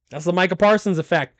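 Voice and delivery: ordinary talk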